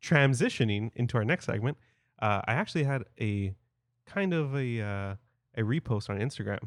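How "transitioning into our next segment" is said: fuller, deliberate segment intro; announcer voice. Shown as a demonstration. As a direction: announce it like a host. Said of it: "Transition. Come on".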